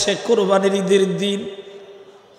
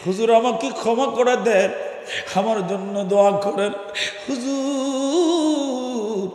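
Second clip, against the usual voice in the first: acted humble lament with long pauses; tearful pleading lion. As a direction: beg forgiveness as a weeping lion, stretching the calls. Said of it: "কাঁদতেছে আর বলতেছে".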